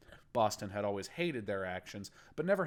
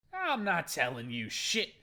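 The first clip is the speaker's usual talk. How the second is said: slow, higher, louder defiant yell; 8 semitones higher, 4 dB louder than usual. Acted. Captive defying the gang boss, yelling. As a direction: spit the refusal at him. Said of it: "he began to yell".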